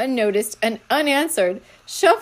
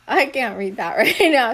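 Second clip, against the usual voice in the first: laughing; 5 dB louder than usual. Real, not acted. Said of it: "It's making me laugh".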